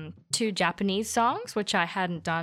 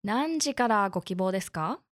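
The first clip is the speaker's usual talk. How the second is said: customer service voice. Acted. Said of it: "I love your beautiful N H K Japanese".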